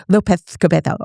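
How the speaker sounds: amused imitation of a lisping Spanish accent; imitated Spanish accent. Friend remembering the classmates, imitated Spanish accent. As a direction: mimic a Castilian Spanish accent with lisp. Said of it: "the way they pronounced".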